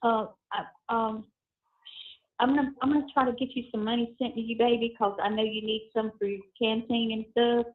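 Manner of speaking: tinny phone call audio; payphone call. Real, not acted. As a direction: voices over a prison phone line. Recorded prison phone call played.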